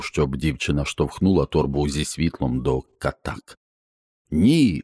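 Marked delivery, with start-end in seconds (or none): 4.3-4.8 sharp loud cry of no; the father shouts too late; crying out to stop her; father's cry. Acted. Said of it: "закричав батько".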